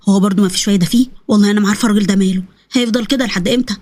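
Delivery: an anxious grandma asking what's wrong; grandmother. Acted.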